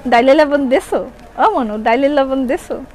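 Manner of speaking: Barishali household question; Barisal dialect. Shown as a demonstration. Seller demonstrating Barishali with a kitchen question, Barisal dialect. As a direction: ask it in sing-song Barisal dialect. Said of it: "বরিশালের ভাষা বলতে পারি".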